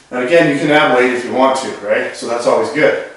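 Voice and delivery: winded mid-exercise; out of breath. Real, not acted. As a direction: talk while short of breath. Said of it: "that sounds like I'm out of breath".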